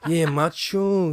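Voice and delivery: laughing. Real, not acted. Laughing at cocaine joke.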